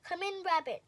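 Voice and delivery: owl voice. Acted. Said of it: "said Owl".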